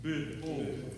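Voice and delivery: "behold" with a short it-like first vowel; right vowel. Shown as a demonstration. Director correcting the vowel of behold. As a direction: lighter bih in behold. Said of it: "More of an it".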